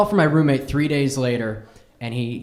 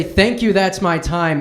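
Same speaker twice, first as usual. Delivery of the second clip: flustered sign-off; 3 semitones higher, 4 dB louder, slower than usual. Retold or imitated. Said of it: "I have enough time to say".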